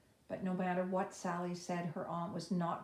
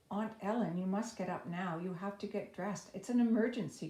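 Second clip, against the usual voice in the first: urgent cry; 2 semitones higher, 4 dB louder than usual. Acted. Sally wakes her aunt in alarm, crying out urgently. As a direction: rouse her aunt in a panic. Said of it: "cried Sally".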